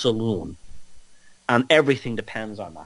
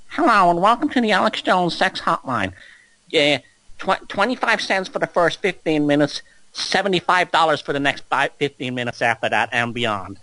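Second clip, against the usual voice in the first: higher-pitched recorded welcome message; hotline greeter; 4 semitones higher than usual. Pretend. Greeting callers to a sex hotline, high announcer voice. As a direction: announce the rates like a phone-line host.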